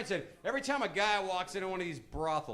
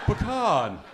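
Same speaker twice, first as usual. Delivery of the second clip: stuck-up pecan; 4 semitones higher, 7 dB louder than usual. Shown as a demonstration. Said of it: "Sounds kinda stuck up".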